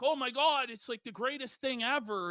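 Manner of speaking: normal talking voice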